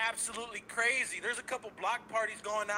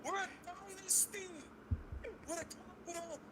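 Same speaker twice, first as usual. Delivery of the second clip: peaking hype; 13 semitones higher, 6 dB quieter than usual. Real, not acted. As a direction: roar it like a victory rally. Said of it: "he's peaking".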